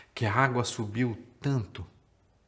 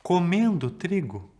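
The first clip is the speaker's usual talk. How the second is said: put-on higher, louder, stuttering little boy; stammering scared boy; 5 semitones higher, 5 dB louder, slower than usual. Boy caught by the giants, stammering in fright. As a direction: stumble over the words like a caught child. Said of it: "Sem saber o que fazer, o menino falou".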